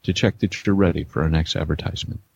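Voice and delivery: flight attendant announcement; pilot voice. Acted. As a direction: read it like cabin instructions. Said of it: "Yeah, please".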